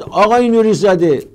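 calling out a name loudly across the street; high, loud hail from a stranger; sudden loud call of recognition; retold shout. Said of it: "یکی داد زد".

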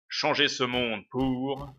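slow, lightly menacing villain; Magus villain voice. Acted. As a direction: drag the words out like a dark lord. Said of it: "donne une bonne voix à Magus".

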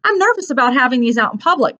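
a touch of unease; nervous boy. Acted. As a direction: confess a worry as an earnest boy. Boy admits being nervous.

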